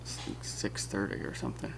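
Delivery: whispering. Real, not acted. Early morning, voice unvoiced.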